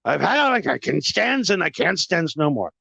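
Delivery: lightly voiced Popeye, barely changed; a hint of Popeye grumbling. Host fed up, turning into Popeye, light impression. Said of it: "Let's turn into Popeye".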